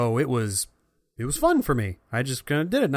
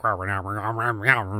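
angry cockatoo; 2 semitones lower than usual. Retold or imitated. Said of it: "and he, like, mumbles and grumbles".

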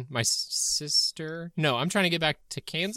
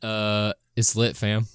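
put-on Bronx accent; 5 semitones lower than usual. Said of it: "sound like they're from the Bronx".

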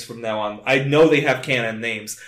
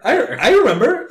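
laughing; 10 semitones higher, 4 dB louder than usual. Real, not acted. Laughing refusal to remember.

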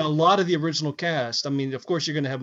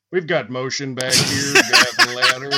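mock cop radio call; 3 semitones lower, 5 dB louder than usual. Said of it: "He does".

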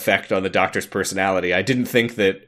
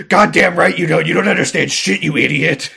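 higher, louder mock outburst; hammed-up angry Doctor; angry snap; 6 semitones higher, 4 dB louder than usual. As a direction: lash out at the companion. Doctor lashing out.

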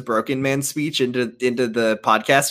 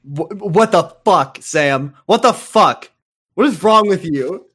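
mock outrage; 4 semitones higher, 3 dB louder than usual.

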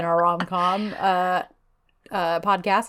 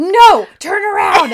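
high, loud, slow order; mock firm command; 10 semitones higher, 8 dB louder than usual. Man telling her to turn around, acted as a loud command. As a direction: call out an exaggerated order.

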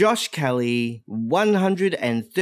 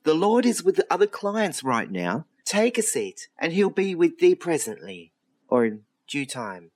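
angel receptionist; 2 semitones higher than usual. Acted. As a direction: greet them like a heavenly clerk. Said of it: "what could only be described as an angel".

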